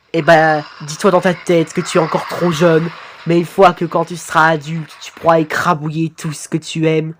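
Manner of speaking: monotone robot father; robotic voice. Acted. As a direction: lecture the son in an even drone. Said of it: "ta voix robotique là". (voix robotique monocorde)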